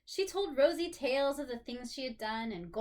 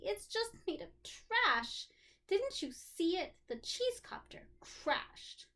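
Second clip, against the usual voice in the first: put-on glum child; 7 semitones higher, slower than usual. Rosie dejected.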